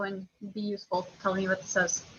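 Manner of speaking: curt, bossy order with no please; blunt demand. Real, not acted. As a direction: snap the request like a command.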